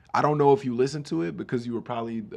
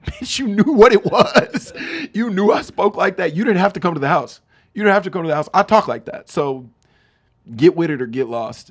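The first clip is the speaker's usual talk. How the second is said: loud, high-pitched mock-outraged rant; indignant outburst; 7 semitones higher, 10 dB louder than usual. Rapper refusing to apologize to his accuser, indignant shouting. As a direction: yell it in exaggerated, unrepentant indignation.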